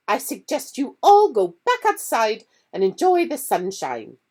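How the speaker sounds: clipped teacher putting pupils in place; stern McGonagall. Acted.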